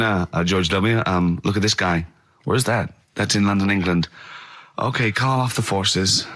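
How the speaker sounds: a hint of an aide reporting to George W; mock White House aide. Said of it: "imagine his aides rushing in and going".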